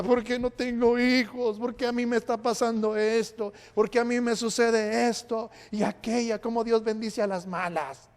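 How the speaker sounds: lightly acted tearful complaint; tearful lament. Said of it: "se iba Ana llorando y decía".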